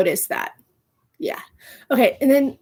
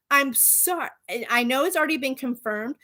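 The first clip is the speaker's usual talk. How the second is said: sheepish aside; 7 dB quieter than usual. Real, not acted.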